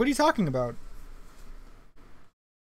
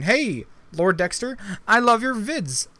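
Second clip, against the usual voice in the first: mock fan voice; 3 semitones higher, slower than usual. Reading a chat comment aloud.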